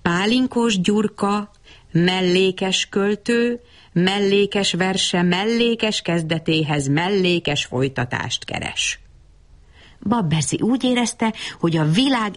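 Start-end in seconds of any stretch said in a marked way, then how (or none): 0.0-9.0 slow, measured verse recital; stately, stretched-out declamation; poetic self-introduction. A narrator's reading. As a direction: announce yourself as a poet, drawing out each phrase. Poet introduces himself in verse.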